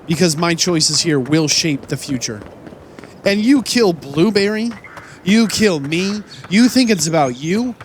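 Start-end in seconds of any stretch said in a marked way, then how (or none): 3.2-7.8 raised, indignant shouting; hammed-up fury at the enemy; mock rage at rebels. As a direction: scold the rebels like a wronged hero. Yelling at rebels in game.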